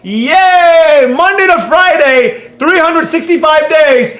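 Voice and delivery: high-pitched, over-the-top cheering; hammed-up gleeful bragging, pitched high; mock hype. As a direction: parody a hyped-up trading group celebrating. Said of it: "Discord channels that be like".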